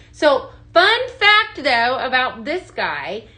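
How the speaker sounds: eager slow reveal of a secret; excited teaser. Real, not acted. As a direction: stretch it out to hook the viewers. Teasing a bonus deal.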